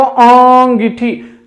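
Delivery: "अंगीठी" with a nasalised अँ like chandrabindu; nasal vowel. Shown as a demonstration. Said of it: "अगर बोलकर देखेंगे आप तो इसका उच्चारण". (चंद्रबिंदु वाला अँगीठी उच्चारण)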